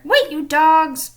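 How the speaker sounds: slow, loud pirate yell; furious shout. A narrator's reading. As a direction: roar it after the rowboat. Captain chasing the boat.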